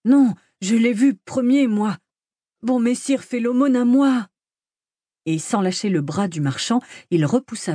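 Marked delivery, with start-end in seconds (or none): 0.0-4.3 high, indignant giant's protest; angry protest. A narrator's reading. Giant objects to a rival for alms, angrily protesting. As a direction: protest crossly, voice raised in pitch. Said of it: "saisi de colère, protesta".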